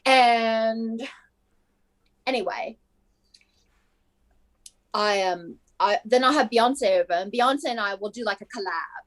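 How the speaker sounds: casual put-on British accent. Superstar daydreaming about a famous singer, put-on British accent. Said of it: "I don't know why I'm British now".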